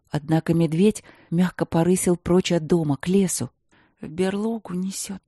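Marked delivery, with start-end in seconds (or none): 4.0-5.2 quiet, detached inner thought; detached murmur. Acted. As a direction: say it numbly, far away. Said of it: "отстранённо подумала".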